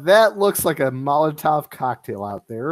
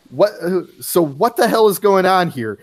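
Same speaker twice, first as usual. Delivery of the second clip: alarmed; 5 semitones higher, 3 dB louder than usual. Acted. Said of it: "May's like".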